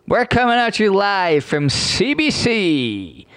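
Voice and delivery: slow, hammed-up broadcaster intro; mock announcer. Mocking CBC, he plays its host: slow mock announcer voice.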